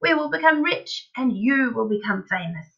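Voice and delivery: high, grand, swelling enthusiasm; excited crying out. A narrator's reading. Father selling his boy a factory dream, crying out excitedly. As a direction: proclaim a glorious money-making scheme. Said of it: "cried Mister Killycranky".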